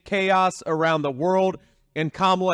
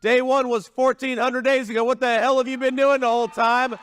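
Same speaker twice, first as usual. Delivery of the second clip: exasperated calling out; 5 semitones higher than usual. Acted. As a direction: call her out, fed up and demanding. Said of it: "all of us with common sense are saying".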